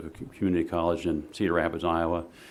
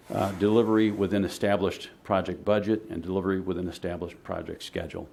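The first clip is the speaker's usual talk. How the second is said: "established" pressed a little harder each time; stress on established. Shown as a demonstration. Presenting to the city commission, stressing "established" firmly. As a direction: lean on "established" in both phrases. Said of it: "I emphasize the word established".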